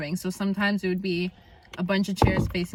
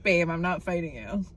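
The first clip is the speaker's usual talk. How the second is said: laughing; 4 semitones lower than usual. Retold or imitated. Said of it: "I was like".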